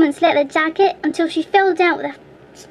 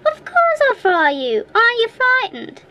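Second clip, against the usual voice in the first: menacing troll; 8 semitones higher than usual. Acted. Troll threatens to fry boy.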